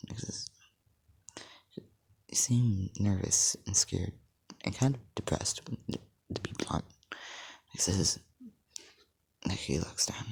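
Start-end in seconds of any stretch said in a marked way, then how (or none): 1.8-6.9 slow and gentle. Acted. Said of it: "You seem nervous or scared".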